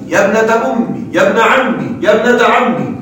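ابنة أمي and عمي end in a doubled mim with a short i; kasra on the mim. Shown as a demonstration. Teacher listing the first form, kasra on mim. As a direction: drop the ya and keep a short i on the mim. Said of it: "الأول حذفها وكسر الميم".

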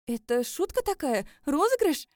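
high, loud, nervous laughing question; laughing through tears. Acted. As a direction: laugh it off in disbelief. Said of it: "Засмеялась я". (сквозь слёзы, со смехом)

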